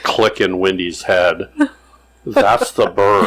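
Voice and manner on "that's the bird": a hushed whisper of sudden understanding; whispered realization. Retold or imitated. Wendy realizing it was the bird, whispered. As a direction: breathe it out as it clicks.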